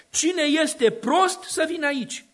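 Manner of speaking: slow, high, mocking call of Folly. Preacher voicing Folly luring the simple, slow high call. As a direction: drawl the invitation like a foolish woman luring. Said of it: "Și strigă".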